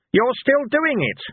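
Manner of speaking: high, slow, deliberate telling-off; pointed accusation. A narrator's reading. Catching a man still gagging his companion, pointed. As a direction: spell it out pointedly.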